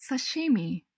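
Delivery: 刺身 as English "sashimi", stress on the middle; 刺身 said sa-SHEE-mi; English pronunciation. Shown as a demonstration. Teacher models English sashimi. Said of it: "お刺身は".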